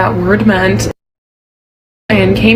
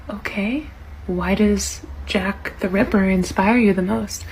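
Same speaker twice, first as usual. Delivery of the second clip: hushed teacher; 7 dB quieter than usual. Retold or imitated. Teacher taken aback.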